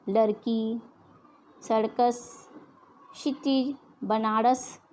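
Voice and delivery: Bihari-style सर्कस and बनारस with a flapped ड़ sound; imitating Bihari speech, र turned to ड़; Bihari pronunciation. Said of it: "Bihari भाषा में". (बिहारी लहजे में, र को ड़ बोलते हुए)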